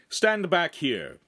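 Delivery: high, slow order; commanding. A narrator's reading. Noble ordering his companion behind him, slow command. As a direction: direct him back, drawing out each word.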